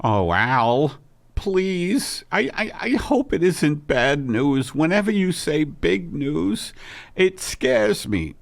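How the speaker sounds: a lightly put-on nervous wife, nearly his own pitch; anxious wife pleading, just a hint of a different voice; Margaret's fretful voice. Wife dreading her husband's big news, mildly fretful.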